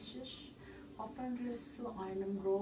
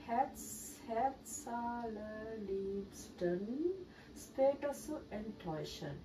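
chipper 1950s ad. Acted. Reads in-game consumerism ad aloud.

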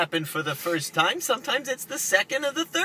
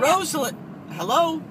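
louder, higher: Rosalind, hello?; raised voice; 6 semitones higher, 4 dB louder than usual. Real, not acted. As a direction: call out over the line. Caller keeps talking over her.

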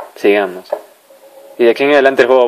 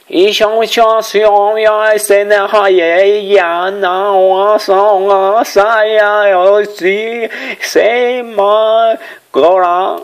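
high-pitched made-up gibberish language; fake foreign language; 9 semitones higher, much slower than usual. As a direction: babble nonsense words in a squeaky voice. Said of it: "hablo muy perfecto este idioma inventado por mí".

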